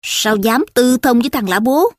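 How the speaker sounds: mildly stern questioning; a touch of accusation; stern interrogation. Acted. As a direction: demand an answer with restrained reproach. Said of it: "hạch hỏi".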